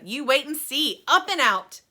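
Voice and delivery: loud, bright answer; gleeful yes. Acted. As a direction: answer with relish. Wonka gleeful.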